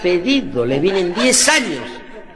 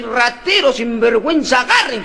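higher, hammed-up yell at a thief; mock yell; 6 semitones higher than usual. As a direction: shriek it after the robber, comic. Old woman yells after thief.

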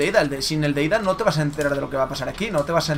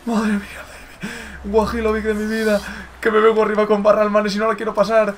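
raised, fast-rolling commentator's chant; hyped commentary; 6 semitones higher than usual. Real, not acted. Gamer hyping up his star player to viewers, excited. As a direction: talk up the players on a high, held note.

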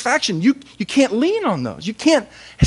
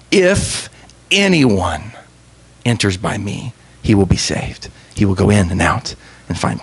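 "anyone" lower and gentle, rising at the end; grace-filled reading; 10 semitones lower than usual. Shown as a demonstration. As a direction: let grace drip off "anyone". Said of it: "the grace dripping off that statement".

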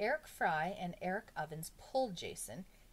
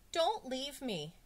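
high, drawn-out begging; stretched-out schoolboy appeal; anxious plea; 8 semitones higher, 4 dB louder, slower than usual. A narrator's reading. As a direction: plead slowly not to be left. Pupil begs teacher not to leave.

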